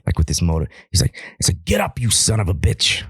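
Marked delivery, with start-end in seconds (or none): 1.6-3.0 hushed, strained imitation of a yell; whisper-shouted trainer's urging; mock yelling. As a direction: yell it under your breath, pitched up. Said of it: "he just starts yelling".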